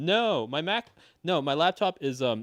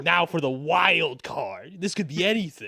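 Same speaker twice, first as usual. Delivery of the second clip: announcer voice; 2 semitones higher, 3 dB louder than usual. Retold or imitated. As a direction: build it up like a host. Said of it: "you're just like".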